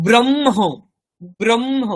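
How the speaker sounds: ব্রহ্ম said as brom-ho, m sounded first; ব্রহ্ম: ম আগে, হ পরে; m before h. Shown as a demonstration. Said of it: "কি বলি".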